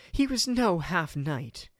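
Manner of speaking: loud, slow indignant retort; instant retort. Acted. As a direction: defend him sharply. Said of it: "Ingrid retorted instantly".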